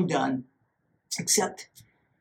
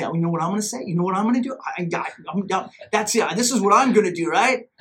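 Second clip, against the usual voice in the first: rising mock fury; inner rant building; faster than usual. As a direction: work yourself up in your head. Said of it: "the voice in my head is screaming".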